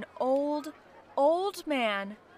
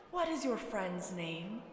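put-on soft, gentle old man; 3 semitones lower, 7 dB quieter than usual. A narrator's reading. Old man asking the crying girl, soft voice. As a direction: ask it kindly and quietly.

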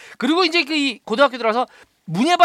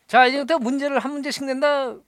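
stern teacher's announcement; 6 semitones higher than usual. Retold or imitated. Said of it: "선생님이 얘기해요".

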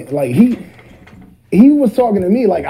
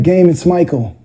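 lower regular voice; 2 semitones higher than usual. Retold or imitated. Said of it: "Like that".

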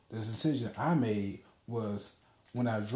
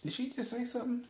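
inner thought; 12 semitones higher, 4 dB quieter, faster than usual. Retold or imitated. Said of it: "I'm thinking".

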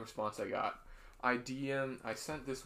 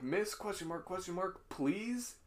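mock proper plea; 6 semitones higher than usual. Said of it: "Wasn't he being mad proper".

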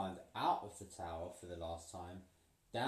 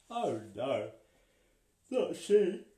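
high, loud triumphant exclamation; dramatic; 5 semitones higher, 10 dB louder, slower than usual. A narrator's reading. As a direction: proclaim it with triumph. Storyteller dramatic answer.

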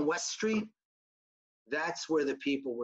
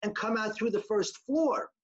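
higher insistent call, no, no, no; mild retold yell; 6 semitones higher than usual. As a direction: warn them off, raised voice. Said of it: "the guy yells back".

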